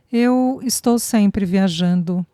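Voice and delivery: slow, flat-toned reply, evasive; monotone. Acted. Man dodging her question in a slow monotone. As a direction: drift into a dull monotone. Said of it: "O tom de voz se tornou monótono".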